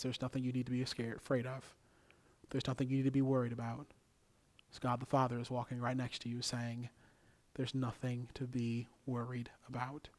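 calm, understated comfort; gentle reassurance. Acted. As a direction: reassure like a father walking alongside. God reassuring the fearful.

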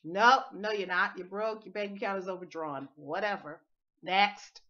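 loud dismissive nope; scoffing subconscious. Pretend. Teacher voicing the subconscious rejecting the claim. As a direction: brush the claim off flatly. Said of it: "It spits it out like".

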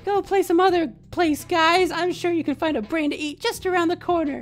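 high, strange zombie voice. Acted. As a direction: speak like a friendly zombie. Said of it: "Do you like my zombie voices".

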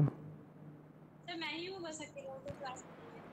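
garbled dropping call audio; breaking up space radio. Real, not acted. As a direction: voice breaking up on a weak line. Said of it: "issue आ रहा है".

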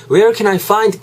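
where can I find, slow, each word laid out; careful model phrase. Shown as a demonstration. A teacher modelling the phrase for students, slow and clear. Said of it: "요런 뉘앙스로".

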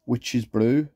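lightly northern-accented reading of a product name; accidental touch of northern English. Real, not acted. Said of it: "why I went northern then".

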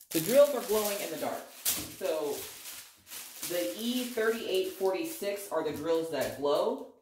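echoey bathroom voice; speaking in a tiled echo room; big hall echo. Real, not acted. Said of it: "I'm sorry if I'm echoing".

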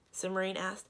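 voiced chapter reading with character lines; story narration. A narrator's reading. Librarian reading a chapter to listeners, story narration. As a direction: read the book aloud to listeners.

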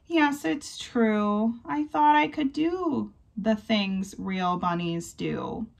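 a touch of tearful slowness, lightly done; mild wailing. Acted. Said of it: "He wails".

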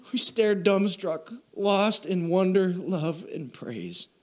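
fighting back tears through the quote; real emotion breaking the reading; choked up. Real, not acted. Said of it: "Sorry for getting emotional".

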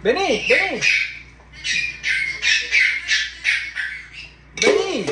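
high, insistent pet call; coaxing call. Real, not acted. Owner calling the parrot, high insistent coaxing. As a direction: call the bird over high and firm.

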